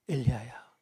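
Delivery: low, hushed calling of a name; gentle, sweet call. Acted. Preacher as God calling Elijah, gentle hushed call. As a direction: call the name softly and tenderly. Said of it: "젠틀하게, 스윗하게, 부드럽게".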